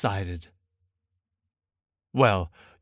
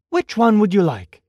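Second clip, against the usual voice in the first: higher-pitched, lightly acted storybook question; lightly voiced young Christopher Robin; 7 semitones higher, 4 dB louder than usual. Christopher Robin asks Pooh to choose a balloon, lightly voiced child. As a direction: ask Pooh brightly, lifting the voice slightly.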